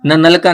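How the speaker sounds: forward-tongued n in "न नल का"; dental na. Shown as a demonstration. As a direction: say "न नल का" with tongue touching the teeth. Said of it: "आप न नल का बोल रहे हो".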